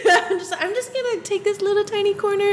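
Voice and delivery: laughing, shrinking into the corner; sheepish timid voice. Retold or imitated. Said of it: "imitating herself at the fridge".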